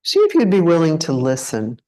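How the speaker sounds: unhurried meditation guide, long pauses between phrases; guided meditation. Acted. Teacher leading a group to check into the body, guided meditation. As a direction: guide them gently into contemplation, leaving space after each phrase. Leads a contemplation.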